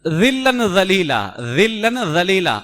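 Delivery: ظلا ظلیلا with a light ذ-like sound; wrong recitation demo. Shown as a demonstration. Teacher imitating the common mistake, slowly. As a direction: say ظلا ظلیلا the way people misread it. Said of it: "اس کو بہت سارے پڑھتے ہیں".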